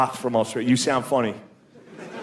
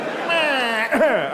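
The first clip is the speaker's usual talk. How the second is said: high, strangled bleat; mock post-homer voice; 11 semitones higher than usual. Comic acting out everyone after one swing of the bat, high silly voice. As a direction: drop the announcer act for a high silly bleat. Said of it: "we're like".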